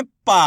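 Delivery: पा said loud with a held aa; teacher's model पा, long open aa; stressed long vowel. Shown as a demonstration. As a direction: push पा out and stretch its aa. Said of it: "कैसे करेंगे".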